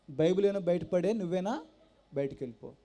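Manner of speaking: imitating the brother throwing him out; angry brother. Brother orders him out angrily. (కోపంగా అన్న బయటికి పొమ్మని అరుపు)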